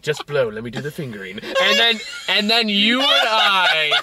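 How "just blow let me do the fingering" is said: soft, hushed line broken by laughter; giggling through a mock of David; laughing mock quote. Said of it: "It was like".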